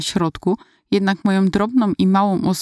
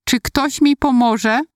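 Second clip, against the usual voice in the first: pleading for help; 6 semitones higher, slower than usual. Retold or imitated. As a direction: beg for help, drawn out and lost. Trampled girl pleading for help.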